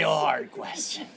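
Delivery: shouted high and loud; mock shout. Repeating his answer as a big shout. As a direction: yell the question out in mock agony.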